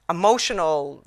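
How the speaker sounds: "emotional" set off after a long pause; stress on emotional. Real, not acted. Speaker names the emotional riptide in the room, emphasis on "emotional". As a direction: lean on the word "emotional". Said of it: "I emphasize the word emotional".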